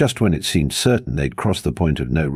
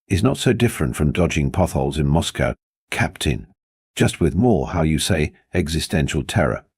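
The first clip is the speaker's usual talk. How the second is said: lightly voiced gruff Russian accent; a hint of a thick Russian accent. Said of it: "A gruff voice with a thick accent".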